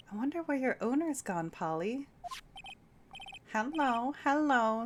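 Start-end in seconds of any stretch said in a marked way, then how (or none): 3.5-4.8 parrot voice. Acted. Voicing the parrot Polly.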